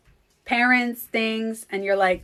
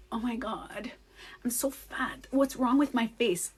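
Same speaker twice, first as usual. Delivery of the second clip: softer, half-whispered inner worry; self-critical whisper; 8 dB quieter than usual. Retold or imitated. She voices her mirror self-talk in a soft whisper. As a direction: whisper it like a private insecurity. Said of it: "I look in the mirror and I'm like".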